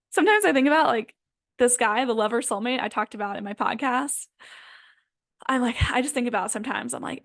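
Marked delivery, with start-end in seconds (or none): 0.0-0.9 laughing. Real, not acted. Laughing while telling about soulmate.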